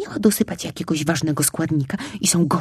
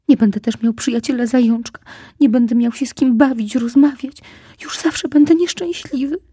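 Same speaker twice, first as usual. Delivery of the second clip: wailing; 7 semitones higher, 5 dB louder than usual. Acted. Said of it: "znowu głośno zaczął zawodzić".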